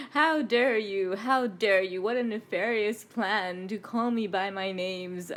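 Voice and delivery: playful, loud mock indignation; mock outrage. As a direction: feign being scandalised, laughter creeping in. Mock outrage, breaks into laughter.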